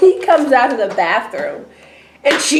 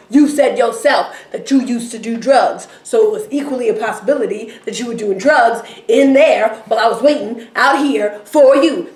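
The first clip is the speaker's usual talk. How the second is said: a touch of a frantic rant, louder; freaking out; 3 semitones higher, 4 dB louder than usual. Retold or imitated. Retelling Becky ranting at Jonah about the drugs, mildly agitated. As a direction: push the accusations in an agitated rush. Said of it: "she freaks out".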